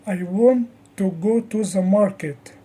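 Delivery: measured model with want, go, market strong; repeat-after-me rhythm on want, go and market; sentence stress. Shown as a demonstration. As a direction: stress want, go, market, soften the little words. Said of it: "The others are softer".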